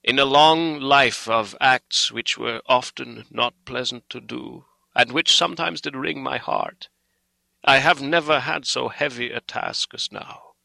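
impassioned, sorrowful appeal, pitch rising; full of pity. A narrator's reading. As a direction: plead earnestly, building in fervour. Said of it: "went on with a voice full of pity".

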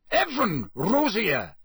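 high, hasty pleading; hurried, nervous. A narrator's reading. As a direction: rush to explain. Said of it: "said Karkaroff hurriedly".

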